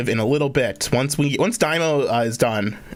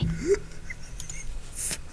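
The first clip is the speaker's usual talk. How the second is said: breathy laugh; 11 dB quieter than usual. Real, not acted. Reacts to TTS joke.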